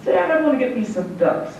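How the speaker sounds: lightly voiced eager little boy. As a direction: pitch it up like a kid. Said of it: "he's got a son named J R".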